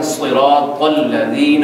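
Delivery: very slow صراط with heavy s and t; correct tajweed. Shown as a demonstration. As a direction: stretch صراط الذین in careful Arabic. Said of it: "یہ اس کا صحیح تلفظ ہے".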